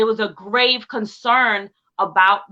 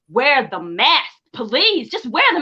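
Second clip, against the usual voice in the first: slow, rising plea, climbing higher at the end; earnest plea; 3 semitones higher, 3 dB louder than usual. Acted. Host voicing the fan telling people to wear masks, pleading. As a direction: urge listeners gently but firmly.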